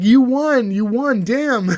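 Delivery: high-pitched mock crying concession; Martin. Martin concedes the fight to Gina, high-pitched mock wail. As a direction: imitate a comic whiny defeat, pitched well up. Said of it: "my voice can't do that".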